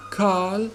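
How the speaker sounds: "Carl" with a long AH and no R; silent R. Shown as a demonstration. Teacher explains the unpronounced letter, silent R in "Carl". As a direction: drop the R in "Carl". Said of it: "is not pronounced".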